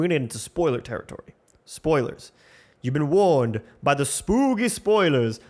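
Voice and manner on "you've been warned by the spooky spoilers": mock spooky warning.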